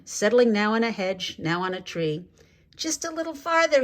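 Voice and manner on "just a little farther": much higher, coaxing promise; John coaxing the tired flock onward; promising. A narrator's reading. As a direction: keep them going with a gentle promise. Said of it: "he kept promising".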